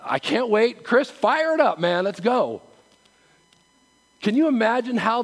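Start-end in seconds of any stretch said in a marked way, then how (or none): 0.0-2.6 louder, pushing in eager to start; eager churchgoer. Pretend. Churchgoer pushing past Lee and calling Chris to start the music, louder. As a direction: rush in calling for the band. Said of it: "if we came at".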